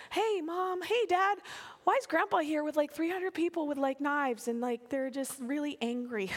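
a hint of a puzzled kid calling to parents; grandkid voice. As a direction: start high like a child, easing down. Grandkids voiced asking about Grandpa.

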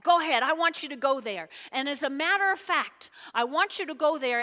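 loud, brisk royal permission; hinted king. Retold or imitated. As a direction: lightly play a king urging him on. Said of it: "he says".

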